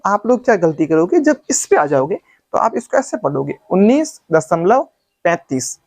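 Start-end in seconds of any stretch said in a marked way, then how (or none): 3.7-5.8 उन्नीस दशमलव, then पैंतीस run together as one number; wrong reading demo. Shown as a demonstration. Teacher showing students the mistake, demonstrated wrong reading. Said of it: "जो बिल्कुल ही गलत है".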